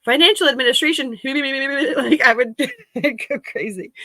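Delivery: high, loud, fast mock gasp; hammed-up dread; mock horrified. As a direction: blurt it like a horrified inner voice. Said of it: "part of me is like".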